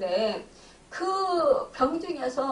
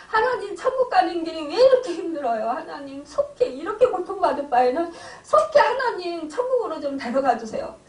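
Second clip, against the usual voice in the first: a tearful cry breaking into the prayer, louder and higher; weeping as she begs God to take her father; sobbing prayer; 4 semitones higher, 4 dB louder than usual. Retold or imitated. Daughter praying at her suffering father's bedside, weeping. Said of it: "통곡을 하면서 막 울었어요".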